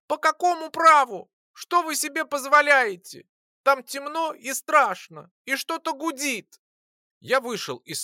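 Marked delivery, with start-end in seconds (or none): 0.1-6.6 high, loud squeaky indignant voice; tiny flyer shouting. A narrator's reading. Little flyer Lora scolding the alchemist, high squeaky shout. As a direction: squeak out outrage like a tiny creature. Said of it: "всё кричала".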